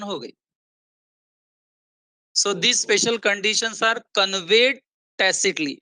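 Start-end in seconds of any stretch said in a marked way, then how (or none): 2.4-5.8 slow, deliberate teacher's dictation pace; very slow reading. Real, not acted. Teacher reading the new material line by line, very slowly. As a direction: read it out very slowly, spacing the words. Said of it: "ये एकदम slow जाऊंगा मैं".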